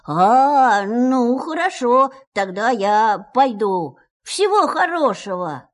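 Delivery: Pooh's voice. Acted. Pooh voiced leaving.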